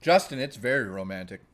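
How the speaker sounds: talking while eating; words round a bite of food; mouth full. Real, not acted. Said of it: "I'm eating".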